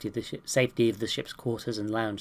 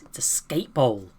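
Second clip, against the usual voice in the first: whispered slowly like a secret; slower than usual. Acted. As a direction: let the kid breathe it as a reveal. Kid reveals secret bowl.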